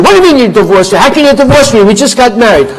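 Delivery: loud, high incredulous protest; husband yelling back at the wife; outraged husband. Acted. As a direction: shout back in disbelief. Husband protests divorce threat.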